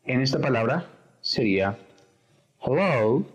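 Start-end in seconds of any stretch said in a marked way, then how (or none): 2.6-3.3 hello with the stress on "lo"; hello, second syllable stressed for learners. Shown as a demonstration. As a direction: lean on the "lo" of hello. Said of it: "El acento en la segunda sílaba".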